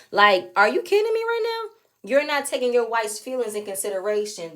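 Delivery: can you believe this, squeaked high; incredulous. Real, not acted. Vlogger disbelieving the husband's reply, high incredulous squeak.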